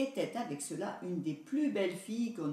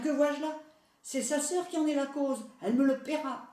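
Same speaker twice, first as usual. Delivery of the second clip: higher, louder shocked question turning to threat; mother seeing vipers, horrified and furious; 7 semitones higher, 5 dB louder than usual. A narrator's reading. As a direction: shriek it, then vow revenge. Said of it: "s'écria la mère".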